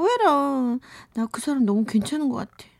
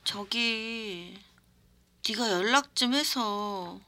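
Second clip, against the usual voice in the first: put-on drunk voice. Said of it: "술에 취한 목소리로".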